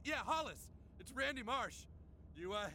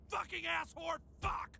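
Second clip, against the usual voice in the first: frustrated swearing. Acted. Swearing breaks through attempts at calm.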